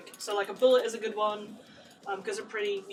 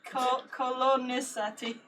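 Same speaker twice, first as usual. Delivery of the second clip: laughing; 2 semitones higher, slower than usual. Shown as a demonstration. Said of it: "guess it from what I'm saying".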